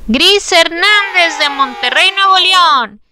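excited winner reveal; hyped giveaway announcement. Acted. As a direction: proclaim the winner like a host. (anuncio emocionado del ganador)

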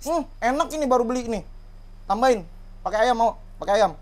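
high, coaxing sing-song; tempting a dog. Real, not acted. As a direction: talk up the treat to a dog.

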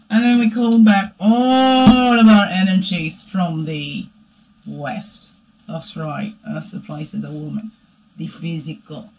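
hushed ceremonial invocation; ritual invocation. Acted. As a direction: intone each direction like a prayer. Calling in the four directions.

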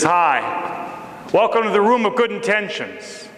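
a hint of an oily greeter; lightly voiced slick hostess welcome. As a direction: greet them with a slightly greasy charm. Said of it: "kinda slick, kinda oily".

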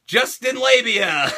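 name twisted through a laugh; laughing mockery. Real, not acted. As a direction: snicker at the joke name.

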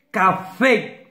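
"Café" as two distinct beats; two syllables. Shown as a demonstration. Teacher showing pupils the two syllables, beat by beat. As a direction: separate "Ca" and "fé" evenly. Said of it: "de deux syllabes".

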